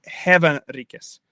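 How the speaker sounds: "hevan riques" with an -es ending; regional Old English variant. Shown as a demonstration. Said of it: "Some regions would pronounce it differently".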